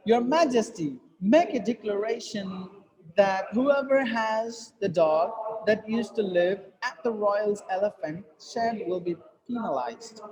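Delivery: small pauses at commas, voice kept suspended until PENALIZED; dip and continue. Shown as a demonstration. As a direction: hold the air, slight dips after MAJESTY and DECLARATION. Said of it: "continue like this".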